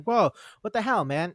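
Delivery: high, loud "whoa, what the hell"; loud and high, taken aback by a friend; startled outburst. Retold or imitated. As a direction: jump back, caught off guard. Acted quarrel, startled reply.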